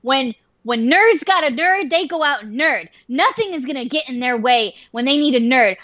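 hammed-up rousing oration; playful heroic pep talk; mock patriotic speech. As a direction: proclaim it like a rallying cry. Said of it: "there was, like, this patriotic music".

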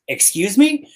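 high indignant "Excuse me?"; offended lady. Retold or imitated. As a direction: pitch it up, taken aback. Lady offended by rude remark.

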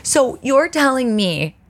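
disbelieving "what?" rising high; can't believe the answer; stunned. Real, not acted. Reacting to "you'll smell it.

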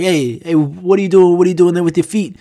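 imitating a neighbor calling out; mock scolding. Neighbor objecting to kid's soccer kick, scolding.

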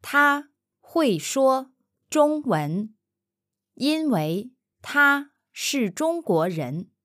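slow model. Shown as a demonstration. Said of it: "slow first model take".

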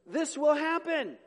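put-on an old priest questioning the angel slowly; doubting old Zechariah. Zechariah pleading doubt to the angel, slow and loud. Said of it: "Zechariah said to the angel".

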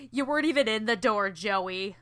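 mock indignation. Acts out Katie snapping back at Joey.

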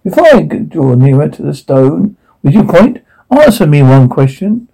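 theatrical Dickens recital; dramatic monologue. Acted. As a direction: declaim it to the stage. Audition monologue performance.

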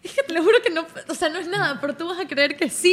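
nervous excuse. Retold or imitated. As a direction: plead innocence while acting caught out. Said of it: "por qué estás tan nerviosa".

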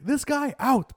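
high, loud ejection yell; angry ref shout. Retold or imitated. Ref points at the heckler, yelling loud and high. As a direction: throw him out at full volume. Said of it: "He's like".

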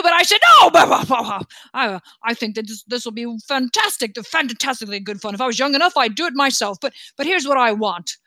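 lightly voiced, stammering monarch with bursts of laughter; jovial, rambling king. King briefs the crew on what he wants, lightly blustering and jolly. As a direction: bluster along merrily, stumbling over words.

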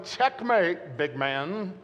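a hint of triumphant teasing; mock taunt. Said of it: "she's going".

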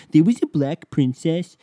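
high, loud mock-outraged squeal; mock an indignant fan in a high silly voice; exaggerated high-pitched whine of disbelief; mocking whiny fan. Mocks indignant Disney fans' reply.

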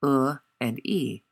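"uh" and "e" drawn out slowly; slow model vowels, "uh" and "e" held apart; demonstrated vowels. Shown as a demonstration. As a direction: sound out "uh", then "e" as a long ee. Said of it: "many sounds in Mandarin that we use in English".

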